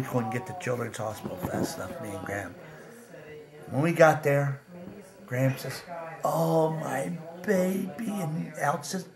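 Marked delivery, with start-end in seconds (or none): 6.2-8.1 slow, slightly high, drawn-out endearment; imitated tender cry. Grandma seeing her boy at the hospital, mildly acted tenderness. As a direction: lightly act a relieved mother. Grandmother reunited with sick son.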